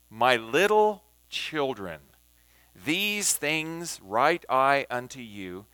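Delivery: slow, deliberate reading with key words leaned on; emphatic scripture reading. Shown as a demonstration. Teacher reads King James aloud for listeners to grasp each word, emphatic scripture reading. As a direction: read it out slowly, pausing so each phrase sinks in. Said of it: "I'm going to emphasize words".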